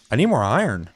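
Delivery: put-on demand with swooping pitch; mock needy friend. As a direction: imitate a pal pestering for supplies. Retold friend demanding iron.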